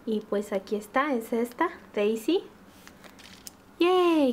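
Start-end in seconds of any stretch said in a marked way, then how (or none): 3.8-4.3 cheering. Real, not acted. Happy about Daisy.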